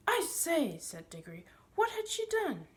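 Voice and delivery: high, loud startled question; eager shocked boy asking; astonished boy. Acted. Boy exclaiming in surprise.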